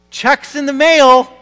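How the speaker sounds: laughing mockery. Mocking the debtor's empty promise.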